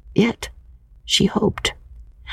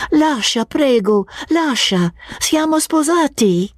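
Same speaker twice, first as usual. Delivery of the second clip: with gentleness. Acted. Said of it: "said with gentleness".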